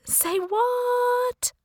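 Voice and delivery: high, drawn-out incredulous "Say what?"; mock disbelief. Narrator teases Becky, high mock disbelief. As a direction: play up the disbelief as a joke.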